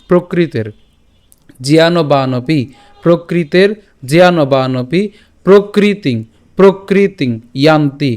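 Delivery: careful chunks from "প্রকৃতের" to "ভূতানি", paused between; measured word groups with a long "ভূ" in "ভূতানি"; pronunciation model. Shown as a demonstration. Teacher modelling the verse in pieces for learners, careful "প্রকৃতিং ইয়ান্তি". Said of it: "উচ্চারণ করলাম".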